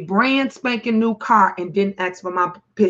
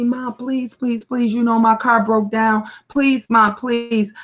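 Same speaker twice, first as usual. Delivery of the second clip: begging son. Retold or imitated. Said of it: "And he begged me".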